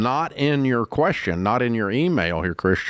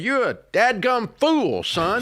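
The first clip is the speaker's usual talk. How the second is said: put-on stern old banker; 10 semitones higher, slower than usual. Banker quoted scolding.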